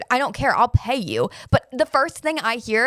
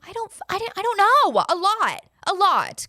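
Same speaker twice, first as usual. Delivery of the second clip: panicked stammer; 10 semitones higher than usual. Retold or imitated. To poison control, retelling her frantic, high panic. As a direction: stammer it out like she's losing it on the phone. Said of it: "And I'm like".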